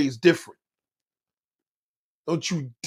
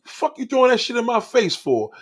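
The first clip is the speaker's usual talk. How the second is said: higher, a touch of angry snapping; retold anger; 6 semitones higher than usual. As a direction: replay the irritated comeback. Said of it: "And I got mad".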